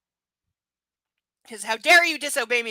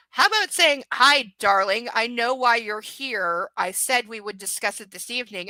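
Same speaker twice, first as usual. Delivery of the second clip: mock-sweet suggestion; 6 dB louder than usual. Rewriting the heroine's reply.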